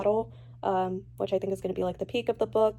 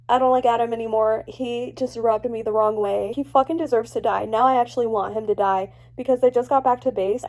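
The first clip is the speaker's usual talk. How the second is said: louder, fed-up ranting; annoyed rant; 7 dB louder than usual. Real, not acted. Reader fed up with Adam, louder and ranting. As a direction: vent that he deserves it. Angry at a character.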